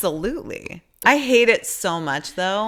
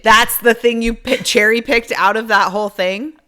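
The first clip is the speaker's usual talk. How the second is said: real indignation, somewhat louder; heated, incredulous challenge; getting heated; 5 dB louder than usual. Real, not acted. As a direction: call it out, getting worked up. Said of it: "Sorry, I'm getting heated now".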